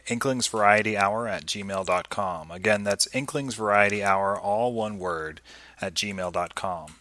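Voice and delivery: upbeat announcer read; host reading the outro over music; podcast outro. Acted.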